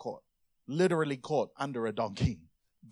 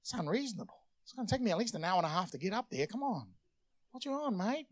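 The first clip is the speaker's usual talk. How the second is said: higher, soft protesting grumble; whiny complaint; 6 semitones higher, 5 dB quieter, faster than usual. Acted. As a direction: moan about being sent out at night. Acted reluctant, whining reply to fiancée.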